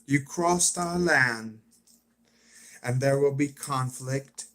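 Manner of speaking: measured, slowed-down character voice; Alpha impression. Trying out Alpha's declaration of conflict, impression. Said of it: "I'm trying to do an impression of".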